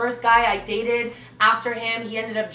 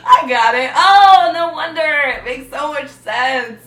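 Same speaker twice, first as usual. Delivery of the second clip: sarcastic; 4 semitones higher, 9 dB louder, slower than usual. Real, not acted. Sarcastic reply to drunk excuse.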